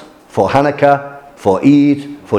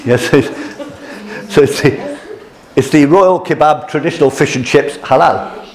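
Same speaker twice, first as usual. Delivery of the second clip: reading the sign through laughter; laughing; 2 semitones higher than usual. Real, not acted. Teacher amused reading a shop sign, laughing. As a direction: giggle while reading it out.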